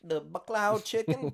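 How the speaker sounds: put-on high-pitched Asian accent parody; mock Asian accent. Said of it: "I was like".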